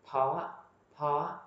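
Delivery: "po" with a clear round o; corrected o sound. Shown as a demonstration. Teacher corrects the dictionary's error, clear o sound. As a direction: say "po" with o, not a. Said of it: "nó bị lỗi chỗ o á".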